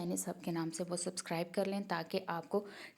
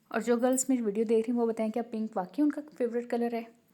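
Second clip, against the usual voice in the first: playful teasing; 4 semitones higher, 6 dB louder than usual. Real, not acted. Teacher teasing girls about pink.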